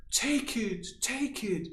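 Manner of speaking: lightly voiced eager giver; mock eager giving. Person giving himself away to everyone, mild mock eagerness.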